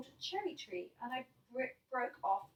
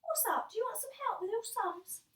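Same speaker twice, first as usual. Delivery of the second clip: higher, lightly voiced sly older brother; helpful brother; 10 semitones higher than usual. Brother offering help with the sums, sweetly higher. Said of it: "So my brother says".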